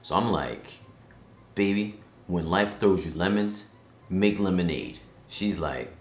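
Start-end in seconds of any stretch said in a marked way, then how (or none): 1.5-5.0 chirpy upbeat dad; cheerful know-it-all advice; upbeat optimistic. Retold or imitated. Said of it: "Mister Positive in the house".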